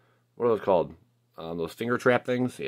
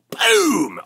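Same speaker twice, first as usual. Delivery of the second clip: high, loud, drawn-out boom; excited hype yell; celebratory shout; 5 dB louder than usual. Real, not acted. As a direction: explode on the reveal. Celebrating the card reveal.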